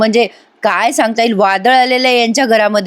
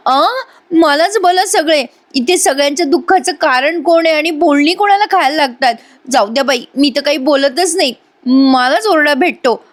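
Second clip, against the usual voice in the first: higher, whining self-pity; pitched-up sulky complaint; whiny sulking; 5 semitones higher than usual. Acted. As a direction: sulk like the misunderstood victim. Asmita sulks after being scolded.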